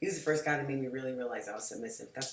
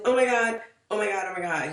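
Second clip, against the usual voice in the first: louder, higher oh-my-gods, thrilled; excited gush; 4 semitones higher, 7 dB louder than usual. Retold or imitated. Seeing the mansion with her date, excited squeal. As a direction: gasp it out like you just saw your dream house.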